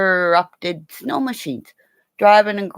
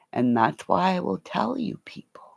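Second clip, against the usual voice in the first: confiding whisper; 6 dB quieter than usual. Real, not acted. Confiding to viewers.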